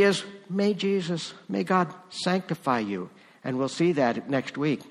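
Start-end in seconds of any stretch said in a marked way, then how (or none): 0.5-3.1 "May Jesus, may God sanctify you" given as a falling, settled blessing; falling blessing tune on "sanctify you". Shown as a demonstration. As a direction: pronounce it like a firm benediction. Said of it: "Blessing says".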